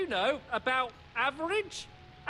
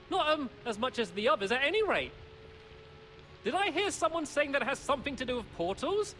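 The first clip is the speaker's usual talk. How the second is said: nervous; 3 semitones higher, 3 dB louder than usual. Acted. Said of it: "you seem nervous".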